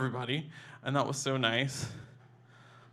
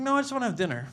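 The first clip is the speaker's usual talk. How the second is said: hushed dad quote; 9 semitones higher, much faster than usual. Retold or imitated. Dad's odd low-key request retold.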